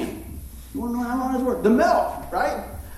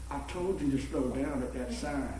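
imitating Jesse; 9 semitones lower, 10 dB quieter than usual. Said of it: "And he goes, "Son," he said".

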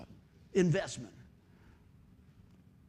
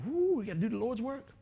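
eager excitement; 5 semitones higher than usual. Retold or imitated.

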